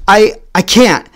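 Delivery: put-on boy dodging the teacher's dare, flustered; flustered protest. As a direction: plead your way out. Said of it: "And I was like".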